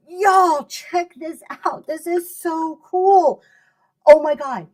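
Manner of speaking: high, loud, gushing excitement; excited seller. Shown as a demonstration. Seller hyping a butter dish to viewers, excited. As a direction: squeal it like it's the best find ever. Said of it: "the Green Thirteen model of selling".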